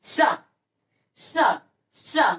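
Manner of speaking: सा drawn out with tongue curled up; retroflex sibilant demo. Shown as a demonstration. Teacher models sound for students, सा with tongue turned upward. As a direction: repeat सा slowly as retroflex "sha". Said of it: "अब सा बोलिए".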